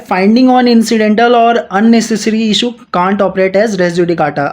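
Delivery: slow, deliberate reading of the statute; measured textbook read-aloud; slow legal reading. Acted. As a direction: dictate each clause slowly to students. Reads the legal text aloud.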